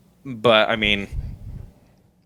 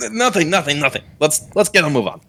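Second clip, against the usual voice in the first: raised, hurried backpedal; backpedalling captain; 4 semitones higher than usual. Acted. Captain placating the hot-headed halfling, backpedalling. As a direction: brush it off and move along. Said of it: "Captain Fox is like".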